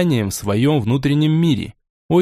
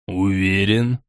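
thoughtful; 5 semitones lower, slower than usual. Acted. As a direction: say it low, lost in thought. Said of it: "задумчиво произнёс Борей".

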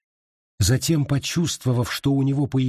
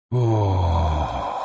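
low drawn-out groan; ghostly moan; 6 semitones lower than usual. Acted. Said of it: "застонал призрак".

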